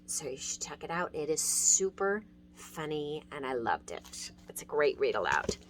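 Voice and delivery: quick, quiet recommending whisper. Real, not acted. Teacher recommending the book to viewers, whispered. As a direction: pass the tip along in a hushed voice.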